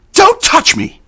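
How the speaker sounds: piercing high scream; shout. A narrator's reading. Frightened girl screaming at the stranger. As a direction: shriek it out in terror. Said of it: "she shouted in a deep Southern accent".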